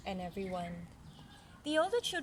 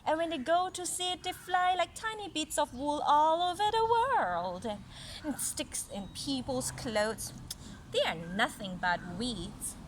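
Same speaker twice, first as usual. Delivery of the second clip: haughty apple branch; 3 dB louder than usual. Acted. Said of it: "exclaimed the apple branch".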